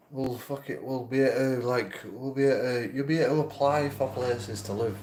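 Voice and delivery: a lightly voiced offhand council worker; mock dismissive official. Mocking the council staff who shrug off his homelessness, breezy and high. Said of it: "They're just like".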